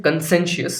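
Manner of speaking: conscientious, leaning on the second syllable; stress on the middle. Shown as a demonstration. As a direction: lift the SEN in conscientious, then fall. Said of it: "उसमें stress देके बोलना है".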